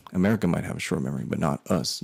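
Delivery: quick, understated border officer; corrected retold quote. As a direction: redo the official's line fast and offhand. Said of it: "I don't know why I sounded like that".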